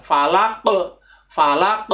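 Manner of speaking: "Falaq" ending in a bouncing q; over enunciating. Shown as a demonstration. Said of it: "harus bendal".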